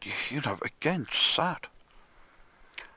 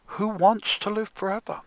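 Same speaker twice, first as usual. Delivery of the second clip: louder, higher, like a grand title; dramatic announcement; 6 semitones higher, 3 dB louder than usual. Acted. Presenting the song to listeners, grandly. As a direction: announce it to the room.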